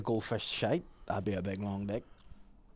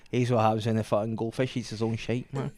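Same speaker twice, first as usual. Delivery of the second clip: put-on Glaswegian accent; 4 semitones lower, 4 dB quieter than usual. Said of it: "replaced with a wee Glaswegian guy".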